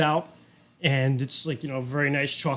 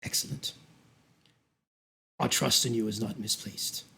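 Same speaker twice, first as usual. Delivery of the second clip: sinister host voice; 5 semitones lower than usual. Acted. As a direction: purr it like a cruel gracious host. GM voicing the Duke.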